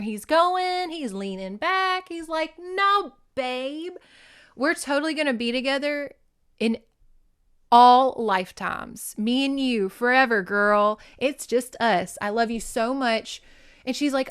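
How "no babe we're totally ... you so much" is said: imitated unhinged lover. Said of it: "he's obviously having a mental illness breakdown".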